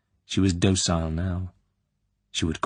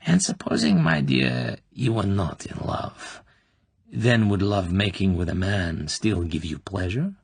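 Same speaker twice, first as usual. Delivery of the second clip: insinuating colonel. Acted. Klebb probing the girl's private life, slyly. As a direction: lean in and savour each question.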